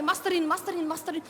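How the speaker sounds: soft calling. Acted. Husband wakes her before dawn, softly calling.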